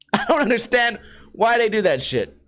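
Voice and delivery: ordinary delivery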